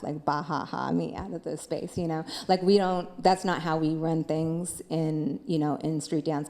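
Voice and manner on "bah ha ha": spelt-out "bah ha ha" laugh, lightly imitated; mock laughter. Dancer imagining street dancers laughing at the expert label, mock laughter. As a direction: imitate being laughed at without really laughing. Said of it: "like, laugh".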